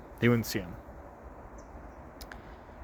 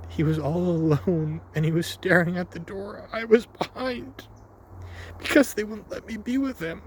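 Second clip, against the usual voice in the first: tearful retelling; 4 semitones higher than usual. Retold or imitated. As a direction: voice rising higher as the tears come. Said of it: "I'm sorry for tearing up".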